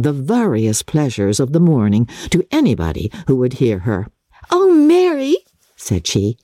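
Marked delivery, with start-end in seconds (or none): 4.5-5.4 high, loud call across the table. A narrator's reading. Lydia calling loudly to Mary across the dinner table. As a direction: call out over everyone. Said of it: "in a voice rather louder than any other person's".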